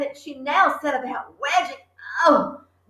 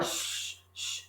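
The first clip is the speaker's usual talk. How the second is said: soft, breathy shush; 18 dB quieter than usual. Acted. Matilda hushing her family, soft. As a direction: hush the family to listen. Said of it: "she said".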